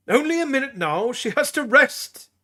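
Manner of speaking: put-on high, fussy old priest voice; a stern old healer shooing visitors; high-pitched voiced old priest; old Tully. A narrator's reading.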